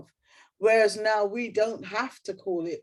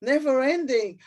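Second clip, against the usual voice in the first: reading aloud; 4 semitones higher than usual. Shown as a demonstration. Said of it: "And I wrote".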